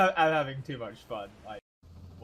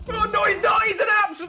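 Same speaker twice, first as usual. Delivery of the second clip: higher, louder startled yell; surprised shout; 12 dB louder than usual. Real, not acted. Gamer spotting an enemy escape, startled shout. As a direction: caught off guard, yelling.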